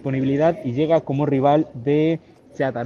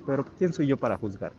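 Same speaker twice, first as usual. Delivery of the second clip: as if eating bread; mouth full; 4 dB quieter than usual. Retold or imitated. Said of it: "como comiéndose un pan". (con la boca llena)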